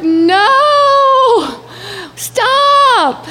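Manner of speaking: shouting at the bus to stop; desperate yell. Retold or imitated. Stranded traveler yelling at departing bus to stop.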